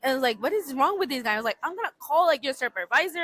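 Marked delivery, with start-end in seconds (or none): 0.4-1.3 mildly exasperated, pitch lifted; retold anger. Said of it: "I was so angry". 1.6-3.2 mock-indignant threat, pitched higher; retold angry threat. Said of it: "I was so angry".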